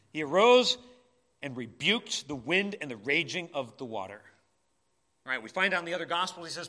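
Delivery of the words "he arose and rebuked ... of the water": arose hit loud, then full-voiced; forceful. Shown as a demonstration. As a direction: proclaim it with authority. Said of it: "just the change in tone?".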